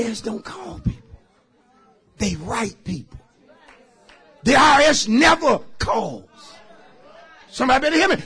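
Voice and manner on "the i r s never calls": raised, higher preaching voice; emphatic warning. Real, not acted. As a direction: proclaim it to the whole congregation.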